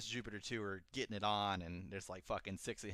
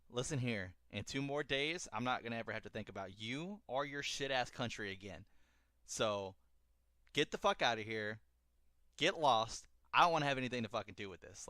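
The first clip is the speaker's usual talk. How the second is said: mock-stern telling-off, getting louder; retold angry brush-off; 3 semitones higher, 5 dB louder than usual. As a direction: imitate a man sending someone packing. Retold angry brush-off of pregnant lover.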